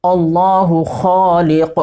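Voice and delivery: careful Arabic recitation of "خالقنا"; Arabic pronunciation. Shown as a demonstration. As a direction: say "اللہ خالقنا" slowly with full Arabic articulation. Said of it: "یا ایسے بولیں گے".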